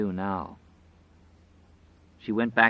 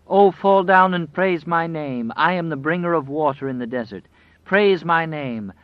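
whining demand; 7 semitones higher, 6 dB louder than usual. A narrator's reading. Wolf demanding worship from the woman, loud whining demand. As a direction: demand worship, drawing the words out. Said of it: "the wolf whined".

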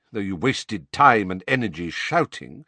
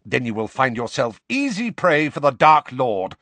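louder, savage tirade; 4 semitones higher, 4 dB louder than usual. Acted. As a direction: tear into him savagely. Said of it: "said Snape savagely".

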